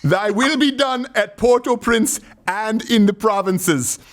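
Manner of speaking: high, slow mock-solemn chant, cracking up; laughing through the prayer. A host reads the dictator's prayer, cracking up. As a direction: intone it like church while giggling. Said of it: "I gotta read this".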